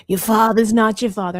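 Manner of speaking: put-on blunt Caribbean-accented medium; flat-out verdict in a Caribbean accent; lightly mimicked Caribbean TV psychic; Madame Cleo. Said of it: "the Caribbean medium".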